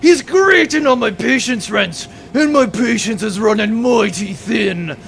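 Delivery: pirate captain villain. Acted. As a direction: rant and threaten with mock exasperation.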